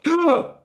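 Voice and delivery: high, sharp gasped "ah"; acted jolt of fright; startled gasp. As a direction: gasp as if at a sudden bang. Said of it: "when a big bang goes off".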